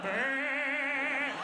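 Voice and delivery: imitated crazed long cry; mock manic yell. Storyteller imitating Morgan running with the hammer, manic. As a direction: blare a wild wordless noise. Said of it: "this is supposedly his laugh".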